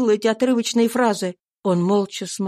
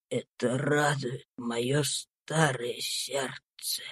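slow, very soft, lower breathy whisper of a dying man; dying Tom comforting himself, a faint slow whisper; weak dying voice; 6 semitones lower, 6 dB quieter, much slower than usual. A narrator's reading. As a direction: barely breathe the words out. Dying Tom's joyful farewell.

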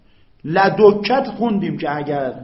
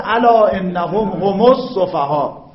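slow, louder chanted verse; Quran recitation; 4 semitones higher, 8 dB louder, slower than usual. Acted. Teacher quotes a Quran verse to class, slow recitation. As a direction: intone the verse slowly.

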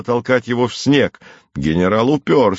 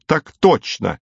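higher barked mimicry of a soldier; mocking soldier's reply; 6 semitones higher, slower than usual. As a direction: parrot his stock answer with scorn. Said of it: "Деревянный вы человек".

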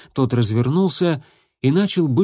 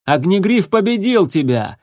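higher, louder shout with weight on победил; 7 semitones higher, 4 dB louder than usual. A narrator's reading. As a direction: fling it at him as a shout. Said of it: "крикнул Крутобок".

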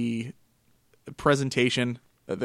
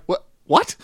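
high, shocked double take; surprised; 6 semitones higher, 6 dB louder than usual. Retold or imitated. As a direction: blurt it out in disbelief. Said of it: "I'm like".

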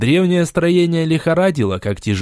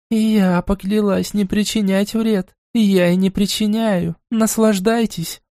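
higher, slower mocking goddess voice; mad goddess, gloating; 7 semitones higher than usual. A narrator's reading. Goddess gloating over the trapped mortal, higher and slow. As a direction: savour each word like a cruel deity. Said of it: "нотки безумия".

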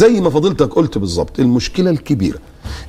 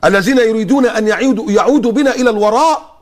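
rising higher, mocking tone; mocking quote; 5 semitones higher than usual. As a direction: parody the secular critic. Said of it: "يقول لك".

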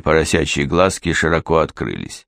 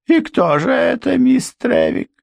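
high, challenging question; defiant housekeeper. A narrator's reading. Housekeeper challenging Miss Trevick, high and defiant. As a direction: dare her to name him, voice up high.

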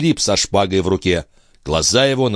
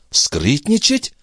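slow, higher astonished echo of the word; exclaiming; 7 semitones higher, slower than usual. A narrator's reading. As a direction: toss the word back in disbelief. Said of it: "воскликнула Андреа". (изумлённо переспрашивая)

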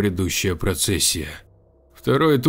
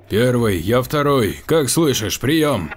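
radio call; 4 semitones higher, 4 dB louder, slower than usual. Acted. Commander calls group over radio.

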